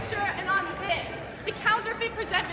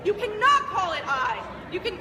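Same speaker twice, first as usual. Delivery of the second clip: louder outburst, hammering CANNOT; angry rebuke; 5 dB louder than usual. Acted. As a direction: throw the accusation out loud. Hamlet rebukes his mother.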